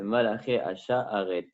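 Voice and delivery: HASHA'ARET said slowly, syllable by syllable; stressed correction. Shown as a demonstration. Teacher correcting the hymn's wording, "Hasha'aret" slow and distinct. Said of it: "C'est pas Malaché Hashalom".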